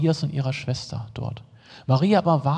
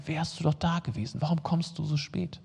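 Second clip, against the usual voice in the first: quiet, hurt question of a grieving sister; soft reproach; 2 semitones higher, 6 dB quieter than usual. Retold or imitated. Sister softly reproaching Jesus, quiet hurt. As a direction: hold it down, a soft lament. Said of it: "Das zweite Mal hört Jesus diese Worte".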